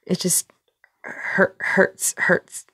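flustered, stammering and restarting; tongue-tied and high-strung, drawing out the corrected phrase. Acted. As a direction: trip over the words, nervously correcting yourself. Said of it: "very high strung right now".

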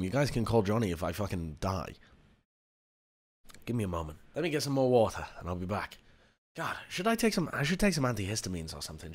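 weak and quiet after overheating; drained, barely getting words out; heatstroke. Real, not acted. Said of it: "I feel faint".

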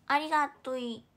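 ありがとう ending in a cute "i" as ありがとい; cutesy demo of ありがとい, a bit loud; hamster-speak. Shown as a demonstration. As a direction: twist the end of ありがとい into baby talk. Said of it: "ハム語".

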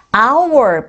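"hour" slowly pronounced from an open "ah"; "hour" as a slow model with silent H. Shown as a demonstration. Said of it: "hour 해서 H 사운드가 묵음으로".

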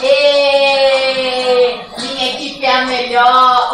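loud triumphant cheer. Real, not acted. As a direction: shout it out in triumph. Cheering her team.

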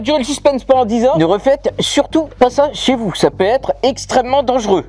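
muffled behind respirator; speaking inside gas mask; through a face mask. Real, not acted. Seen 0: Half-face respirator worn over mouth and nose throughout; off before and after.

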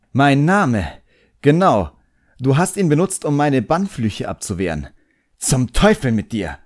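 put-on excited young magician shouting out his find; triumphant boy. A narrator's reading. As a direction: crow over the answer, then curse him. Boy triumphant then cursing.

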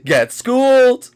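loud, slow gloating taunt; drawn-out taunt. Real, not acted. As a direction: stretch out schooled, gloating. Taunting the seeker.

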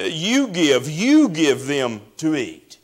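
slow, stress on You in You give; emphatic command. Retold or imitated. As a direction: hit You hard in You give, slowly. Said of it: "It's very emphatic".

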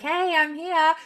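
a light imitation of a hopeful shout; cheery call. Daryl calling to the boat, a light cheery imitated call. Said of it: "he's like".

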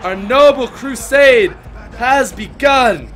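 loud, high, grand roll call of names; hammed-up movie trailer voice; booming announcer read. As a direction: announce each name like an epic herald. Reads game credits announcer-style.

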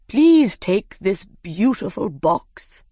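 slow, ceremonious bird voice; grand dodo. Acted. The dodo hands Alice the box, slow and grand. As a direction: present it slowly, with pomp. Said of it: "he said".

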